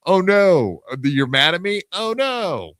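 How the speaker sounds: sarcastic high whiny oh no; mocking pretend panic; mock concern. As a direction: fake worry, hammed up. Mock fake concern quote.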